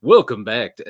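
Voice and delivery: a bit of a radio announcer welcome. Retold or imitated. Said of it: "one of those sweet radio voices".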